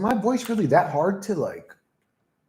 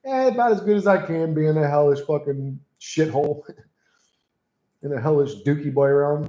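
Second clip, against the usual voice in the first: sardonic go-to reply. Retold or imitated. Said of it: "That's always my go-to response".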